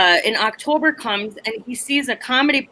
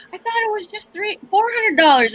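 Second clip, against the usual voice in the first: hoe's voice; 10 semitones higher than usual. Retold or imitated. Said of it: "the hoe's like".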